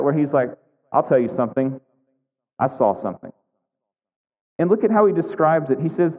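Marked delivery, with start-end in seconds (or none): 0.9-3.3 a lightly voiced slimy tattletale, pitch dropped; slimy informer. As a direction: lean in low like a sneaky snitch with gossip. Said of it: "the slime just come off the page".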